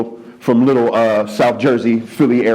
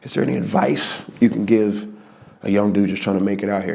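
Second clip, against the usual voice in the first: timid ask; 4 semitones lower, 6 dB quieter than usual. Retold or imitated. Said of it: "get up the gumption and just go".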